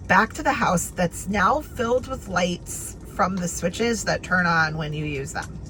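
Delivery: reading aloud. Shown as a demonstration. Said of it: "here's an example".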